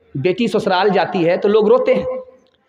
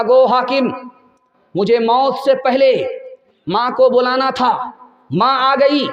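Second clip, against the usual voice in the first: passionate outcry, voice raised and high; raised impassioned plea; 5 semitones higher than usual. Retold or imitated. Condemned son's speech to judge.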